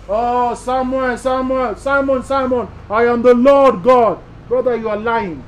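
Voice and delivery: slow, booming divine voice calling by name; voice of God. Pretend. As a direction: play God calling out to the brother, drawn out and loud. Pastor voices God calling brother.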